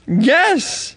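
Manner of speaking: put-on old lady voice.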